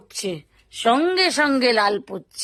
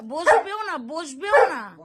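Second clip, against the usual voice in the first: drawn-out teasing; 4 semitones higher, slower than usual. Real, not acted. Teasing the pet who won't sit.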